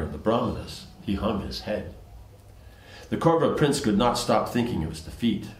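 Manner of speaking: measured storytelling read-aloud; even, recited narration; story narration. A narrator's reading. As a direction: read the scripture tale aloud in phrases.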